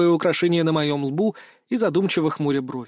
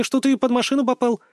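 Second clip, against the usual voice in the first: put-on higher girlish reading of the phrase; teen girl repeating rumour, pitched up; Mia's voice; 8 semitones higher than usual. A narrator's reading. Girl teasing friend about accident, higher voice. Mia quoting official version.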